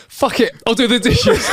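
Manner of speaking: high, loud exasperated outburst; father shouts. Acted. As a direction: blurt it out like a fed-up dad. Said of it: "the father shouts".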